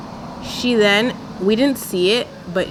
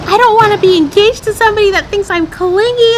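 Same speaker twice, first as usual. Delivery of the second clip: high, loud whiny wail, much higher, mock sobbing; mock crying Chelsea; 13 semitones higher, 8 dB louder than usual. Mocking the crying fiancee to her viewers, high loud wail. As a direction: ham up a tearful meltdown. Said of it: "she starts crying and she's like".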